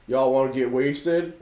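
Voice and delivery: slow, drawn-out stoner offer; slow lazy invite to get wasted; lazy stoner buddy. Retold or imitated. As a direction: drag it out like a stoned friend. Buddy voiced offering stolen booze.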